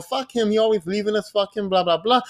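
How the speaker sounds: mock grumbling about an absent husband; light imitation of an annoyed wife; mad. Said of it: "she might be mad while he going".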